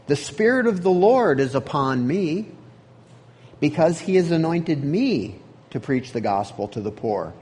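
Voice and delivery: solemn read-aloud of a Bible passage; scripture reading. Acted. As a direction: read the verses like a preacher in the pulpit. Reads Isaiah passage aloud.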